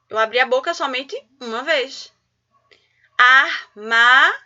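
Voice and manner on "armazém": "Armazém" slow and loud in three separate beats; syllable by syllable. Shown as a demonstration. Teacher counting mouth openings, "Armazém" slowly syllable by syllable. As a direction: break "Armazém" into ar, ma, zém with pauses. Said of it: "Abri minha boca três vezes".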